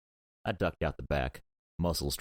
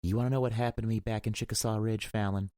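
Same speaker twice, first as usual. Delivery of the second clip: higher, fiery challenge; 7 semitones higher than usual. A narrator's reading. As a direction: voice threaded with fire. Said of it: "threaded with fire".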